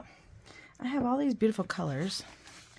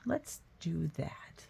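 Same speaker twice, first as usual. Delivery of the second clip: whisper; 6 dB quieter, much slower than usual. Real, not acted. Quiet aside to herself.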